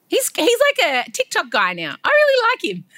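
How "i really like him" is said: laughing through the words; laughing affection. Real, not acted. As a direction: giggle it out fondly. Laughing while speaking.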